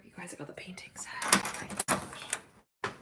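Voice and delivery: fast hushed whisper; excited whisper. Real, not acted. Whispering to the chat about the painting set.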